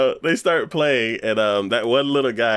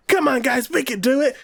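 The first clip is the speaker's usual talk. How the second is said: hammed-up team cheer. Retelling the anime team rallying, high mock pep talk. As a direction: play the eager kid rallying the team. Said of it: "They're like".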